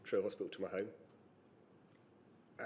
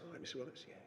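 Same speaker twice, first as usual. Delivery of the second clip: softer, gentle nurse voice; softly spoken nurse; 6 semitones higher, 9 dB quieter, much faster than usual. Retold or imitated. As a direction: imitate a soft-spoken nurse drawing blood. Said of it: "She's always very softly spoken".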